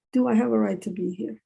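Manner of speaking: deliberate question, set apart by a pause; self-questioning. Retold or imitated. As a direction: ask it again in measured words, rising at the end. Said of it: "I'm always questioning myself".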